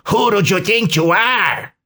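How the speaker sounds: put-on high, indignant Hispanic-accented villain; thick Hispanic accent. A narrator's reading. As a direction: challenge him in an exaggerated Hispanic accent. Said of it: "growled Chico Juarez in a thick Hispanic accent".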